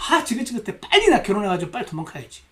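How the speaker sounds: desperate to get out, acted; fed-up. Preacher imitating women who want out, fed up. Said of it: "많은 여자분들이 그러세요".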